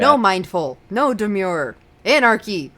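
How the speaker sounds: shouted chant, building up; rally the crowd loudly; loud rallying cry. Pretend. Rejecting the demure trend.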